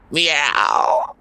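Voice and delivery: high suggestive meow; cat meow. A narrator's reading. Cat hinting at a plan, high meow. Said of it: "Azrael suggested".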